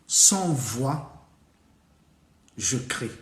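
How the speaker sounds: slow riddle with long pauses between phrases; riddle recital. Acted. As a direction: pose a mysterious riddle, phrase by phrase.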